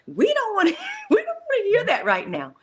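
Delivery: high whiny put-on voice, laughing through it; mock whiny reluctance. To the host, mocking listeners in a whiny voice. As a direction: mimic people who don't want to hear it.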